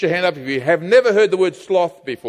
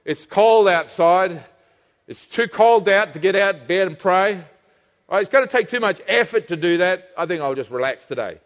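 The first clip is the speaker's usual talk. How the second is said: lightly voiced excuse-making whine; a touch of lazy coaxing; tempting inner voice; 3 semitones lower than usual. The lazy voice giving excuses to stay in bed, mildly whiny. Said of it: "Or it might say".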